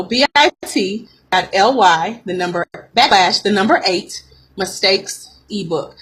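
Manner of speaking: spelled out slowly, piece by piece; slow dictation. Real, not acted. Coach repeats the link for listeners, slowly. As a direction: say it slow, with breaks between the parts. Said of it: "Let me say that slow".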